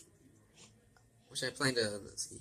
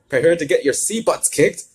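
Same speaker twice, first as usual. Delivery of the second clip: cocky taunt; 7 semitones higher, 11 dB louder than usual. Acted. Luna taunts villains.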